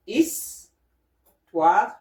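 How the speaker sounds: "Histoire" slowly split in two, pause before the second syllable; slow demonstration. Shown as a demonstration. French teacher explaining what histoire means, slow and segmented. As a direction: break up "Histoire", then space out "means history". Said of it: "as in the word histoire".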